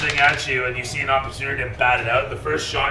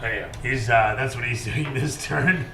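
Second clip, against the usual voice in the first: ordinary talk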